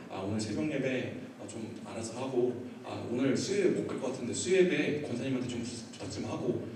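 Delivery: softly asking, lightly acted; low-key, softened request to a spouse; asking a favor. Husband asks wife to cover services, softly.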